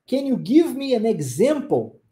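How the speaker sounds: "Can you give me an example?" said slowly and clearly; "Can you give me an example?" at a slow, instructional pace; slow teaching model. Shown as a demonstration. Teacher repeats the question slowly for learners.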